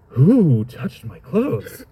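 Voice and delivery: very slow, dazed wondering; drawn out like a stunned surfer; Keanu Reeves moment. Shown as a demonstration. Jesus in a Keanu Reeves daze, slow. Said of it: "this is more like a Keanu Reeves moment".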